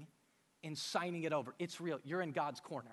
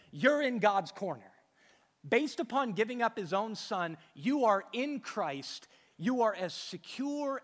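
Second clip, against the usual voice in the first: emphatic preaching; 3 semitones higher, 5 dB louder than usual. Acted. Preaching climax.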